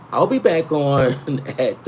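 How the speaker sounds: chuckling while repeating himself; words broken by little laughs; laughing through it. Real, not acted. Laughs over his own flub.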